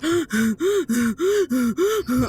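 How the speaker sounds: imitating a raspy dog's breath; heavy raspy wheeze; wheezing breath. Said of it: "he's just like".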